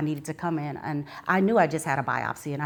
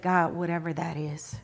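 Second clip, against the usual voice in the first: whispered prayer. Retold or imitated. Quiet prayer for peace.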